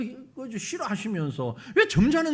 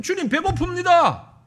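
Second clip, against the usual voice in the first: loud, plain-spoken prayer; 솔직하고 큰 간구; direct plea; 7 semitones higher, 7 dB louder than usual. Shown as a demonstration. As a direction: ask God straight out. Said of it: "주님 앞에 간구할 땐".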